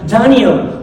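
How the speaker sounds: Daniel with an American English accent, first vowel like dj. Shown as a demonstration. Preacher shows how Americans say Daniel, American accent. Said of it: "allá en América".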